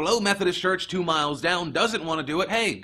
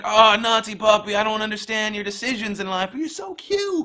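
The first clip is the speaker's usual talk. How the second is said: cooing at a puppy; 5 semitones higher, 4 dB louder than usual. Retold or imitated. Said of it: "You'd be like".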